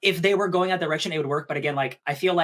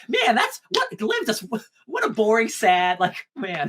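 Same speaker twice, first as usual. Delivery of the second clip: high, slow put-on lament; mock reaction; 4 semitones higher, slower than usual. Viewer reacting to the boring girl's death, high mock lament. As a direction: draw it out high in mock pity. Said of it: "And I'm like".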